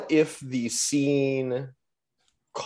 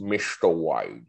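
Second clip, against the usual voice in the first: slow, lower mock Welsh; Welsh accent; 7 semitones lower, 4 dB quieter, slower than usual. Shown as a demonstration. Repeating a Welsh impression for friends, slow mock Welsh. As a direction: draw it out in a comic Welsh accent. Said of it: "the Welsh accent is very".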